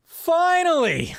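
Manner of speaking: slow, high, loud cry of relief; relieved cry. Real, not acted. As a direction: let it out at last. Topic finally arrives, relief.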